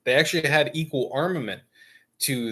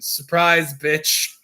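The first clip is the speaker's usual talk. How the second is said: mock gotcha; 4 semitones higher, 5 dB louder, much slower than usual. Gunboat suddenly revealing its guns.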